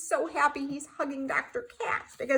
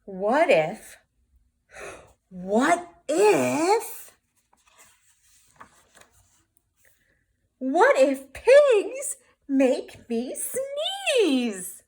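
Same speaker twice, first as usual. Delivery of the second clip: slow, teary and louder, close to crying; teary worry; 5 dB louder, much slower than usual. Acted. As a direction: dread it slowly like a kid about to cry. Gerald fears pigs cause sneezing.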